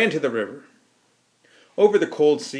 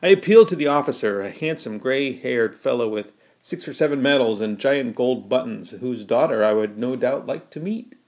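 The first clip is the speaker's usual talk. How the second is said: ordinary delivery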